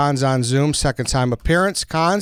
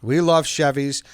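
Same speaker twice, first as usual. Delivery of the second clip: whisper. Acted. Echoing cohost, ad banter.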